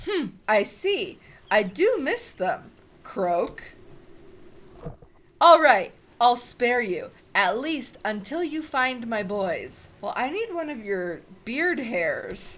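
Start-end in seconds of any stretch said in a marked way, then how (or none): 0.0-9.9 loud monster mother, grudging then booming; toad mother relenting. Acted. Toad mother spares the hero, grudging. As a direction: give in, but keep the threat.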